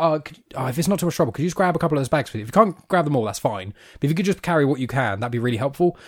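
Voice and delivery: easygoing, tentative polite request; being nice. Acted. Imagined stepdad asking a kid to help with bags, nicely. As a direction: ask a kid gently, leaving an easy out. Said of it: "be nice to a kid".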